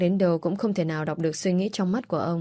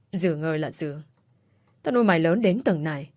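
raised, scolding father's rebuke; angry scolding. Acted. Father scolding his daughter for disgracing the family, angry. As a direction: berate her like a shamed father.

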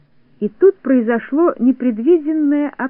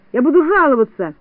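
higher-pitched complaint; protesting cry; 4 semitones higher than usual. A narrator's reading. Neznaika dragged out by Znaika, protesting cry. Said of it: "кричал Незнайка".

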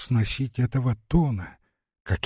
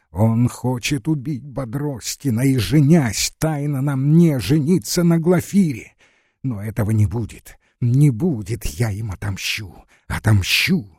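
cried out in rage. Acted. Lara leaps up and cries out her revenge plan in fury. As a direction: let it build into a vengeful outcry. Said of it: "вскричала".

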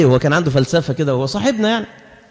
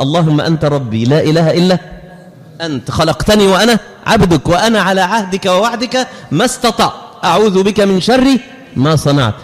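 earnest recitation. Real, not acted. Reciting sayyid al-istighfar.

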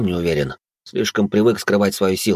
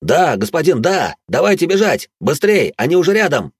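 much higher, louder, gleeful shouting; ecstatic yell; 8 semitones higher, 4 dB louder than usual. A narrator's reading. Браут в восторге кричит господину, что надо бежать. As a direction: yell with relief that they'll run. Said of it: "восторженно завопил".

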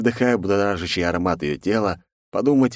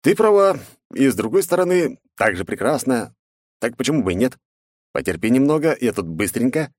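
playful agreement; 6 semitones higher than usual. Acted. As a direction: echo her line with a grin. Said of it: "был вынужден с ней согласиться".

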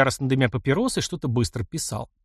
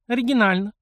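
teasing jab; 10 semitones higher than usual. A narrator's reading. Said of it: "подпустила шпильку девчонка".

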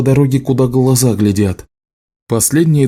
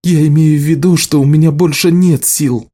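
crying; 6 semitones higher, 3 dB louder than usual. A narrator's reading. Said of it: "заплакала Элиса".

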